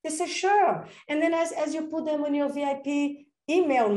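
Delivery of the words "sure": a high, loud "Sure"; eager yes. Retold or imitated. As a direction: chirp the yes brightly. Client agreeing, retold.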